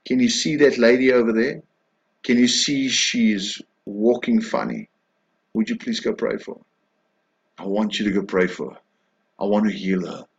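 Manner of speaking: hushed, tender voice of God gently asking. Acted. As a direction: ask kindly and softly, like a gentle invitation. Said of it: "He says gently".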